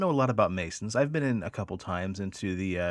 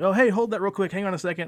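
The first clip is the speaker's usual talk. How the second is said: casual fake bluff; 10 semitones higher, 5 dB louder than usual. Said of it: "and I was like".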